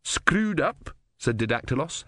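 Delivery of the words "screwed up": higher, happy interjection. A narrator's reading. Didactylos chips in on the broken engine, happy. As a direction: chime in happily, pitched well up.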